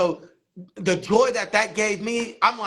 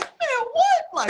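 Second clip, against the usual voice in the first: stunned reaction. Retold or imitated. Inner reaction to Tab's critique.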